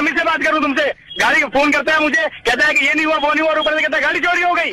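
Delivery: real anger at the garage man; furious phone complaint; angry. Real, not acted. Prank victim furious at mechanic.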